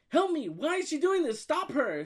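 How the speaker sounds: high, loud, pleading outburst; mock panic. Texting mom while hiding from the kid, mock panic. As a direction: plead frantically, pitched right up.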